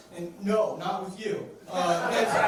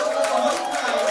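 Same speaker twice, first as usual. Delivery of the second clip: much higher and louder, bragging the number; emphatic yell; 6 dB louder than usual. Acted. Comic boasting about weight loss, shouted. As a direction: shout the hundred pounds proudly.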